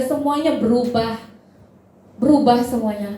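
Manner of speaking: rhythmic list with punched key words; emphatic preaching. Real, not acted. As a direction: press each point on the congregation. Preaches point with force. (khotbah tegas dan bersemangat)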